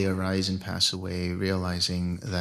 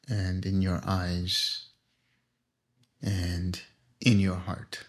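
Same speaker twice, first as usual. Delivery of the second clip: guided meditation. Acted. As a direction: lead them gently into relaxation, phrase by phrase.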